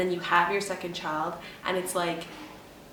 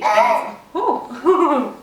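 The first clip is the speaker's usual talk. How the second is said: laughing; 6 semitones higher, 11 dB louder, much slower than usual. Real, not acted. Laughing while recalling the pushes.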